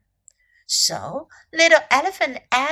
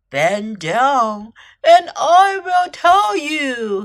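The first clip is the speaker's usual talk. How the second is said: sly crocodile; 6 dB louder, much slower than usual. A narrator's reading. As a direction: lure them in, drawing it out. Sly crocodile lures the elephant.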